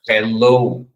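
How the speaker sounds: "hello" com H aspirado, mais alto; English greeting. Shown as a demonstration. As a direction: diga "hello" clara e forte. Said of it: "Então, aqui". (saudação em inglês)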